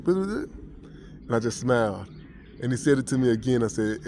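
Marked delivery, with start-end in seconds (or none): 0.0-0.4 higher, louder rapid foreign babble; mock gibberish. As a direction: imitate speech you can't understand. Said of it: "this how it sounded like".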